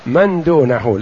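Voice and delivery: من said man, meaning "who", not min; fatha on من. Shown as a demonstration. Teacher correcting the reader's text, من with fatha. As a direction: say من دونه as "man dunahu". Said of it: "يعني الذي دونه".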